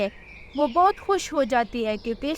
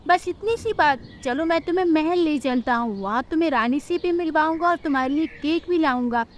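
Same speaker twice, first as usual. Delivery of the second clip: higher, friendly uncle voice; kindly uncle; 4 semitones higher than usual. Acted. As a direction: cheer her up gently. Kind bird uncle comforts.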